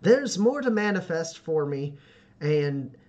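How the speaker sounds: slow, halting declaration of resolve; determined youth picking each word slowly; earnest young homesteader. Acted. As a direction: steel yourself and state it deliberately. Voices Joe accepting the challenge.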